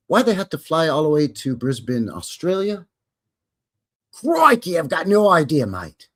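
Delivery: a cartoonish Aussie twang on crikey and mate; bad Australian accent. Vlogger jokes about filming in Brisbane, terrible mock Australian accent. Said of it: "that was wrong ... a terrible accent".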